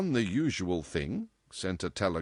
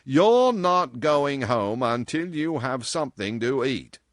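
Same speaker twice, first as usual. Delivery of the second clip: loud, slow, insistent order; determined; 6 semitones higher, 7 dB louder than usual. A narrator's reading. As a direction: lay it down with no room for argument. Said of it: "he announced with determination".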